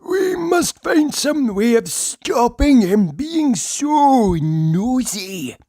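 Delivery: high conspiratorial whisper; a plotting carpenter's high secret whisper. Acted. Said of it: "said Mister Chips".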